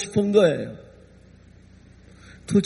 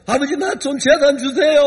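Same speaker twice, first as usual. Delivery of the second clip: defiant son. Acted. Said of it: "하고 막 대들었을 때".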